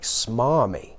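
puzzled, questioning rise on Smarmy; baffled. Retold or imitated. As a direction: say Smarmy as if you can't believe it. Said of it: "And I was a bit like".

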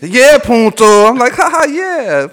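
high, fake chuckle "ha, ha, yeah"; mock clueless laughter; fake laughing along. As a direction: laugh along without getting it. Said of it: "I was like".

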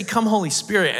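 praying aloud. Shown as a demonstration. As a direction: call on the Spirit, lifting the voice on Come. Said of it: "I say".

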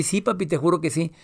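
a hint of a girl promising; imitating daughter. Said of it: "Mijita, ¿en serio te acuerdas de mí?".

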